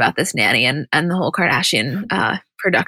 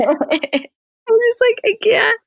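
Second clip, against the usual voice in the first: laughing disbelief; 14 semitones higher, much slower than usual. Real, not acted.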